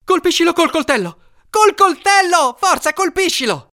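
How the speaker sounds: high, frantic shouted command; urgent yelling. A narrator's reading. Brother urges stabbing the scorpion, yelling. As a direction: yell it, peaking on the repeat.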